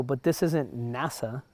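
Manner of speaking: slow, laughing comeback; laughing put-down; amused retort. Retold or imitated. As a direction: drag it out while chuckling.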